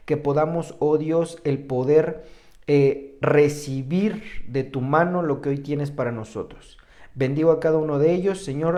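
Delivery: steady, devout prayer voice addressed to God; earnest prayer. Acted. Pastor praying for his listeners, earnest prayer. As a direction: pray it through for the flock. Pastor prays over congregation.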